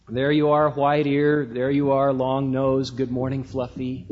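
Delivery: low, even-pitched shepherd's greeting; intoning shepherd. Acted. Shepherd greets each sheep by its trait, lightly intoned. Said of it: "he would begin to intone in his own sing-song, weird voice".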